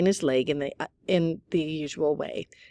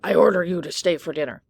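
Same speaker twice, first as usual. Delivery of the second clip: very improper voice; 5 dB louder than usual. A narrator's reading. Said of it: "In a very improper voice".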